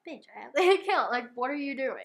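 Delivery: fast, loud and high mock outburst with a laugh; incredulous shout. Wife yelling at her husband who hid the phone, loud and fast. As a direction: yell it at him, half laughing.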